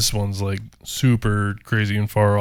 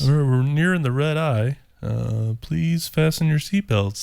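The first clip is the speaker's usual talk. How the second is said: pilot announcement; 5 semitones higher than usual. Acted. Pilot announcement in acted trip.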